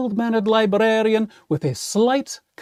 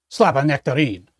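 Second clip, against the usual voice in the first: musing repeat; 4 semitones lower, faster than usual. Pretend. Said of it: "What on earth does that mean?".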